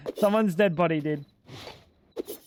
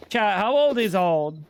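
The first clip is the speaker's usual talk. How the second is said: slow rhetorical. Real, not acted. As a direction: ask it slowly, mock-grave.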